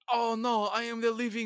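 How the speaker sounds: high-pitched cartoon vampire imitation; Michael Morbius. Podcaster imitates the nineties animated series vampire for a co-host, hammed-up Morbius. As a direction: put on a high, melodramatic vampire voice. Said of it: "that's how he sounded".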